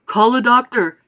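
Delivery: loud urgent shout. A narrator's reading. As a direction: shout for help. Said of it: "shouted Mister Beauregard".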